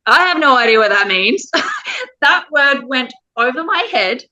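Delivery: fighting back real tears while telling it; choked up. Real, not acted. Mum recalling her deaf daughter's diagnosis, choked up. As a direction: voice catching with tears, then a high broken laugh.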